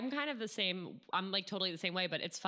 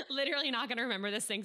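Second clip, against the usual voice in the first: laughing; 6 semitones higher, much faster than usual. Real, not acted. Host joins the drinking joke.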